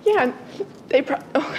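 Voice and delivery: talking through hiccups; words broken by a hiccup. Real, not acted. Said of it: "I'm hiccuping a lot".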